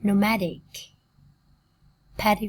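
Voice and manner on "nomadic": Nomadic with the MAD syllable stressed; stress on second syllable. Shown as a demonstration. Teacher showing adjective stress, second syllable of Nomadic stressed. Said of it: "tính từ là âm tiết thứ hai".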